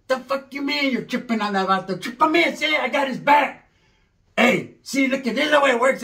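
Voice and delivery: hammed-up cholo defending his pad; ranting cholo uncle. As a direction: rant like a proud veteran in his own house.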